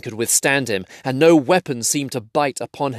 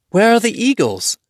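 higher, lighter hobbit voice; Bilbo voice; 11 semitones higher, 5 dB louder than usual. Acted. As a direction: voice the young hobbit asking. Bilbo's voice in story.

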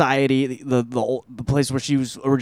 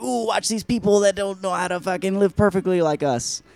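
higher, gushing gawker voice; mock tourist awe; 5 semitones higher, 4 dB quieter than usual. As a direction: coo like a smug sightseer. Mocking gawking tourists in retelling.

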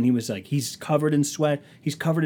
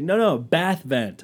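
slow, higher, drawn-out correction; emphatic clarification; 5 semitones higher, 4 dB louder, slower than usual. Retold or imitated. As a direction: spell it out slowly for someone who misheard. Retold slower clarification.

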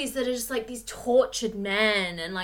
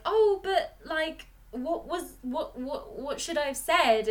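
flustered protest; 5 semitones higher, slower than usual. Acted. Acts Harley's confused, hesitant defence.

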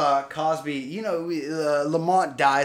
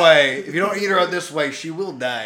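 loud put-on Asian-sounding accent; hammed-up accent, drifting toward Chinese; mock foreign accent; 3 semitones higher, 13 dB louder than usual. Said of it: "It's getting a little Chinese there".

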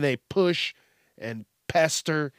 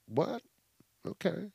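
taken aback; 4 semitones higher, 9 dB quieter than usual. Acted. Acting out people's stunned reaction.

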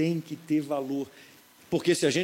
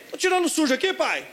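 put-on child's voice; 11 semitones higher than usual. Voz do filho respondendo.

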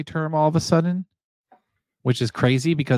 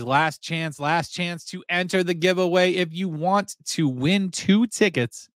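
higher-pitched giveaway announcer, slowing at the end; announcer's last call; 4 semitones higher, slower than usual. Acted. Host calls chat to enter ticket giveaway, announcer style. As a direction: announce it like a final call, stretching the prize.

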